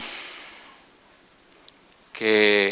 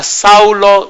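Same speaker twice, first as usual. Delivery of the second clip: calling out; 5 semitones higher, 4 dB louder than usual. Acted. Jesus calls Saul from heaven.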